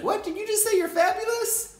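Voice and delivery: exaggerated disbelief. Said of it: "and it's like".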